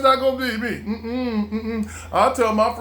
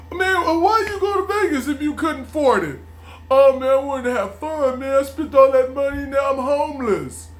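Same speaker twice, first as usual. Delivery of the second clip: judging friend; 5 semitones higher than usual. Retold or imitated. Imagined judging people.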